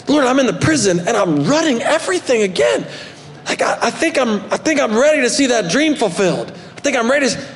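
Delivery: pleading that he's ready; a hint of an impatient young man praying; eager Joseph praying. Joseph pleading with God, voiced.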